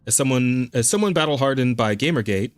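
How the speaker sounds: steady read of a written piece; reading an article aloud. Acted.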